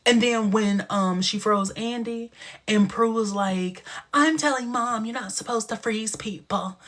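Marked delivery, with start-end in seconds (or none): 4.1-6.8 lightly voiced fussy old uncle; a hint of a prissy tattling uncle; Uncle Arthur voice. Child tattles to mom in a light Uncle Arthur voice. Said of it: "I made her sound like Uncle Arthur".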